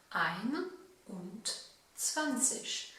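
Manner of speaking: "ein und zwanzig" as three clear German words; German number said out. Shown as a demonstration. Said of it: "si je veux dire vingt et un". (dire « ein und zwanzig » mot par mot, à l'allemande)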